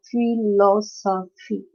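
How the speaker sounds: "philosophy" slowly as phi-lo-so-phy; syllable by syllable. Shown as a demonstration. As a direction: break "philosophy" into four parts. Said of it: "It's a four-syllable word".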